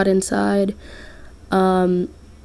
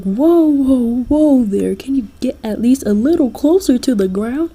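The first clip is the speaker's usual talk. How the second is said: higher, louder startled whoa; alarmed protest; 4 semitones higher, 4 dB louder than usual. Acted. Listener to Jack while flying high above ground, alarmed protest.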